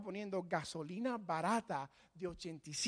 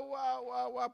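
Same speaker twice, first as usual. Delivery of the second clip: mock crying; 5 semitones higher, slower than usual. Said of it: "y está llorando".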